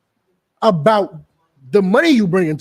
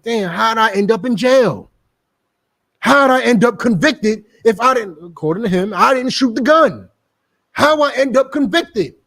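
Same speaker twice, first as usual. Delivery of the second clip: mock bewildered convict; 5 semitones higher than usual. Preacher imitating a convicted man, higher bewildered voice. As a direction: act baffled at your own conviction.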